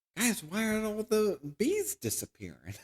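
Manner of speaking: put-on sweet, high, sing-song childlike voice. Mocking Mark Wahlberg playing a science teacher, high-pitched Mark Wahlberg impression. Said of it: "like high pitched".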